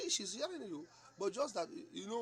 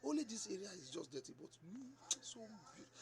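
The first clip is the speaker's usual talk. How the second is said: teasing flattery; 2 semitones higher, 4 dB quieter than usual. Retold or imitated. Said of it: "joke with her and say".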